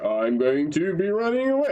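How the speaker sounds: mock scared line stretched to fit, pitch climbing; scared dub acting. Podcaster parodies an English dub actor fitting syllables, mock scared. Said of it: "say this as if you're scared, but within this time frame".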